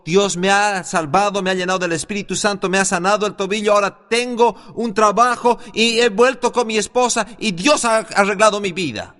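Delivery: brisk, rising retold testimony; excited testimony. Man testifying to the preacher two weeks later, excited testimony. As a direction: pour out the good news in a fast, eager list.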